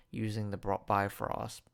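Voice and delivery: stumbling through a retainer; retainer in mouth. Real, not acted. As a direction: trip over words with a retainer in. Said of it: "I have my retainer in".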